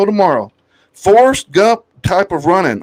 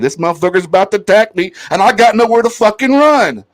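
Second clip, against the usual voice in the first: panicked inner thought; faster than usual. Retold or imitated. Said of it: "that's what I'm thinking".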